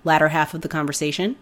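hoarse from a cold; talking through a sore throat; sick voice. Real, not acted. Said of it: "Forgive my voice, I'm a little sick".

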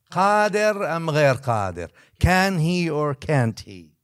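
put-on the drunkard's last loud, slow demand; loud slow challenge. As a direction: hammer the question home slowly. Final shouted challenge.

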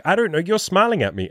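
imitated girl, pitched high; goofy, silly. Imitating the girl answering the teasing, silly and playful. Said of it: "kind of this, like, goofy, silly thing".

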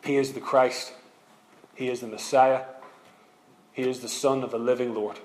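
soft, low, hushed plea to Christ; the repentant criminal rebukes his fellow, hushed and awed. Retold or imitated. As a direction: breathe it out in awe, softly. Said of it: "is shocked and says".

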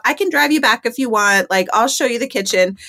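mother him a little; motherly. Retold or imitated. Greeter soothing the lost hippie, lightly motherly. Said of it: "I wanna mother him".

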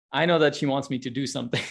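usual speaking voice

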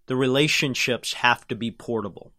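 slow and deliberate, every word clear; over enunciating. Shown as a demonstration. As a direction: spell it out slowly for emphasis. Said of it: "Let me say it slowly".

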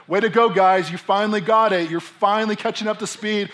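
loud, high congratulations; acted-out booming approval; imagined hearty praise. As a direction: cheer them on, hammed-up. Imagined Jesus praising the disciples.

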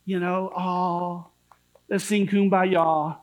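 a hint of lazy reassurance; mock easygoing preacher. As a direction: sneer at the comfortable preacher. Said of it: "I would just say".

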